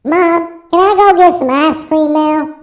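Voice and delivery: Southern country twang; country accent. Retold or imitated. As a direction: beg Mom for ice cream in a country accent. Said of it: "why do I do that with a country accent".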